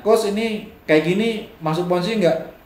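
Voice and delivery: high, questioning student voice; imitating a participant asking the coach; mock student question. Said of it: "Eh, nanya".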